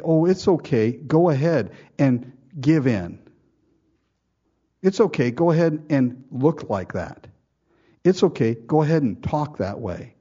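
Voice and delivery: a hint of a soothing yes-man egging them on; mock enabler. Mocking an enabling friend.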